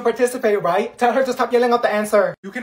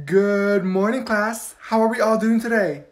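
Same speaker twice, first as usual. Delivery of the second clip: overly cheery teacher; 3 dB louder, slower than usual. Acted. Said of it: "Why is she acting like that?".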